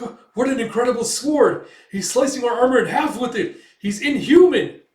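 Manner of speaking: panicked cries. Acted. Soldiers watching Guts cut through armor, panicked shouts. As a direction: scream in terror at the monster.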